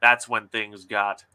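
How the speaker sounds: steady, even story narration; story reading. Acted. Author reading her diner scene aloud to guests. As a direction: read the scene out calmly.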